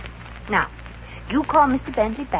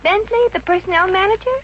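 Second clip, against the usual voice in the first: surprised; 8 semitones higher than usual. Acted. Maisie surprised at the name.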